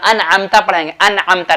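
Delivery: अनअमता with a clean N before the ayn; izhar pronunciation. Shown as a demonstration. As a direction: keep अनअमता free of nasal hum. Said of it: "नाक में आवाज़ नहीं जानी चाहिए".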